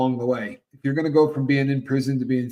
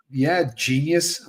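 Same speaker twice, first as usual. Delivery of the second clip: slow, sneering sarcasm; sarcastic; 3 semitones higher, much slower than usual. Retold or imitated. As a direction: drag it out like she's stating the obvious. Sarcastic reply to psychiatrist.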